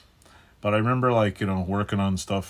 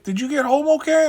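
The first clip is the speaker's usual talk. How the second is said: put-on high, loud girly voice, much higher; imitating the girl; 9 dB louder than usual. Girl checking he got home, high voice. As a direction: ask like a concerned young woman. Girl asks about him.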